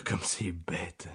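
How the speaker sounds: slow, soft sighed complaint; sighing. Acted. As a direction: let it out on a weary sigh. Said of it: "soupira Holmes en secouant la tête".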